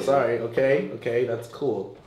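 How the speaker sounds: quiet put-on girl voice; lightly voiced young woman. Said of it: "I switched my voice to a girl voice".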